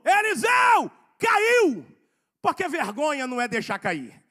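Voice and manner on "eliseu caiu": high, loud cry to Eliseu; shouted cry. Retold or imitated. Worker calling to Eliseu that the axe fell, loud high cry. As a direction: yell it out in alarm. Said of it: "ele gritou".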